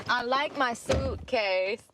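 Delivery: slow, lightly put-on Slovenian-accented boy; Barron Trump. Repeating what Trump's son says, slow accented imitation. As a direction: stretch it out with a hint of a child's Slovenian accent. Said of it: "With his little".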